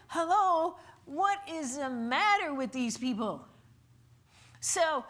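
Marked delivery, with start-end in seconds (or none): 0.1-3.4 loud, incredulous hello to the crowd; exasperated hello. Real, not acted. Preacher to congregation, exasperated disbelief. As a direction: throw up your hands in disbelief.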